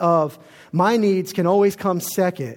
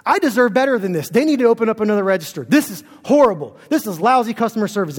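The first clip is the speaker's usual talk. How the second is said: mock indignant ranting; 3 semitones higher, 3 dB louder than usual. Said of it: "she's just preaching this at the top of her lungs".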